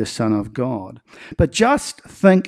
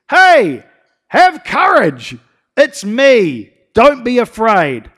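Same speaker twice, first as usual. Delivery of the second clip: comforting call; 7 semitones higher, 5 dB louder, much slower than usual. Acted. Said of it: "Jesus is quick to comfort them".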